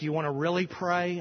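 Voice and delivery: "really" leaned on for emphasis; stress on "really". Shown as a demonstration. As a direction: put the weight on the word "really". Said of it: "I'll emphasize that word".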